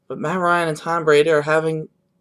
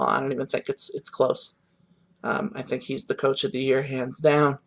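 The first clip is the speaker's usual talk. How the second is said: breathless, winded delivery; out of breath; 3 semitones lower, 4 dB quieter than usual. Real, not acted. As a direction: talk short of breath. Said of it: "like, out of breath".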